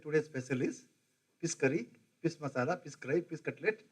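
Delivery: Odia-accented English with s for sh; Orissa English accent. Shown as a demonstration. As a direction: imitate an Orissa waiter saying "pis" for fish. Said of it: "For example, in Orissa".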